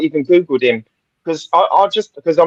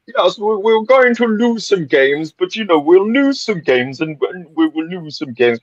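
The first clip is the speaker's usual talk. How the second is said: put-on a half-hearted Danish accent quoting the manager; bad Danish accent. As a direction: imitate the Danish manager badly, lightly. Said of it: "That is the worst Danish accent I have ever heard".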